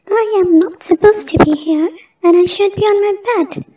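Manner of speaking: a mild near-scream, racing through the words. Acted. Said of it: "nearly screamed in a shrill voice".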